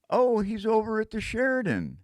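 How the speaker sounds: high called-out line; hollered answer. Retold or imitated. Someone hollering the answer across the room.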